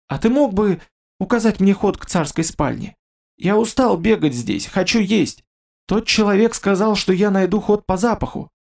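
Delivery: a weary stranger asking the monster for help; nervous werewolf voice. Acted. Werewolf's pleading speech. (усталый оборотень просит, голос выше)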